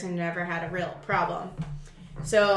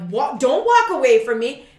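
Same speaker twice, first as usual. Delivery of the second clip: louder, demanding; angry call; 3 semitones higher, 6 dB louder than usual. Retold or imitated. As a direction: stop him with your voice. Yelling after fleeing thief.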